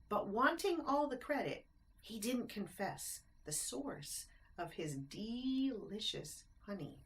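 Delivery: lilting rhymed storybook narration; bouncy read-aloud rhyme; reading to children. A narrator's reading. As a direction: read it like a bedtime picture book. Reads rhyming picture book aloud.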